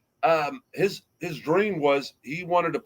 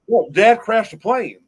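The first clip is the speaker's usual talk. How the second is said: higher, louder, fighting back a real laugh; laughing while talking; 5 semitones higher, 6 dB louder than usual. Real, not acted. Host telling a tragic story to friends, laughing. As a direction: push the news out through laughter. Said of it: "Why are you laughing at that?".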